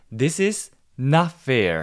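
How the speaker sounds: not hit hard, heavy stress on not. English lesson on negation changing meaning: strong stress on not. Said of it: "부정, not. 이거는 의미를 바꿔주는 거기 때문에 최대한 강세를 주면서 얘기해 보세요".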